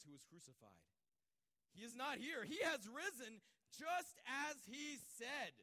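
solemn, measured Bible reading; scripture reading. Acted. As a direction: read the passage with weight, pausing between phrases. Reads the scripture passage.

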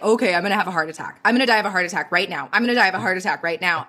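fast, mocking sarcastic patter; teasing an ex-boyfriend with fast sarcasm; eye-rolling sarcasm. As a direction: roll your eyes and rattle it off. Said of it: "roll my eyes and be like".

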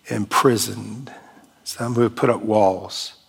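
calm, earnest spoken prayer. Real, not acted. Pastor prays over the congregation, calm and earnest. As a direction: pray humbly for the wounded.

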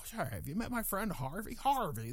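lightly hammed-up film star impression; Jimmy Stewart. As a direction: slip into a bad movie-star imitation. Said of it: "I do the worst Jimmy Stewart imitation".

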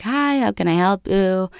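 hint of a young Italian's accent; light Italian accent. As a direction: lightly imitate an Italian shop kid. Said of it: "cute little Italian kid".

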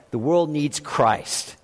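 soft, slow, throwaway line; offhand cliche. Shown as a demonstration. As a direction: say it like a tired stock phrase. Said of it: "when I say things like".

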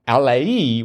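"Alai" stretched out slowly with an extra ending; Alai drawn out. Shown as a demonstration. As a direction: sound out "Alai" slowly, syllable by syllable. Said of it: "whatever it happens to be".

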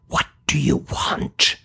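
urgent whisper; hissed whisper. A narrator's reading. Tina whispers sharply at the monster so classmates can't hear. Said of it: "Tina hissed a whisper".

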